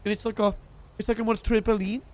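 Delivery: lightly put-on South African accent. Shown as a demonstration. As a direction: bounce through the words in South African. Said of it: "it just becomes South African".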